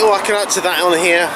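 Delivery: plain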